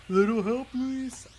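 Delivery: put-on dopey plea; hammy character voice, first word punched; Patrick. Shown as a demonstration. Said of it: "Like a Patrick voice".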